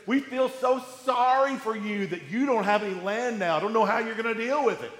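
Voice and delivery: mock sympathy, quickening at the end; understated fake sorrow; sarcastic lament. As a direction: pretend to pity them, lightly mocking. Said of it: "It's this sarcastic lament".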